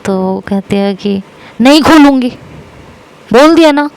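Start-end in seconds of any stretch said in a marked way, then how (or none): 1.6-3.9 higher, louder flat refusal; loud shout. Retold or imitated. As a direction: shout the no, then clip it off. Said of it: "ऐसा ज़ोर से मेरे ऊपर चिल्लाती है".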